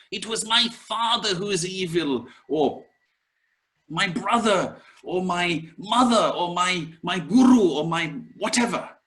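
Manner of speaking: high-pitched mock complaint blaming everyone; whiny blaming. Teacher mimics students blaming others, in a high whiny voice.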